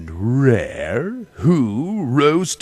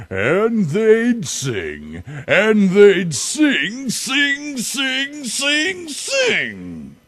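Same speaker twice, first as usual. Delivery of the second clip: each sing climbs much higher; escalating storybook build; building frenzy; 13 semitones higher, 4 dB louder than usual. Acted. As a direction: ramp up the repeats to a peak. Repeated singing, building up.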